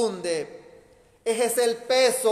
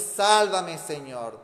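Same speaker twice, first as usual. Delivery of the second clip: shouted plea; 3 semitones lower, slower than usual. Shown as a demonstration. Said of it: "grítale a Jesús". (grito de súplica: "Sálvame" fuerte, "Señor" suave)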